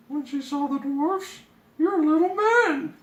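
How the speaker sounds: high, loud surprised princess; high startled princess realizing. Acted.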